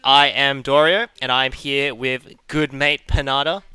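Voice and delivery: energetic tournament host intro; esports caster. Real, not acted. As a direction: hype up the match like a caster.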